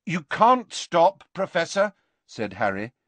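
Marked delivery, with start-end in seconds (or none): 0.1-1.9 urgent. A narrator's reading. Harry urging desperately.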